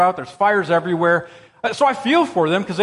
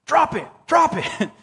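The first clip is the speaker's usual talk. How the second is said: slow, high mock demand to God; praying like the bear yell; 9 semitones higher than usual. Pastor showing how we demand things of God, slow mock plea. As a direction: turn the bear yell into a pleading prayer. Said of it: "we go to God with our requests".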